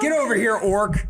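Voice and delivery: commanding war chief. Acted. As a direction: order him over like a king.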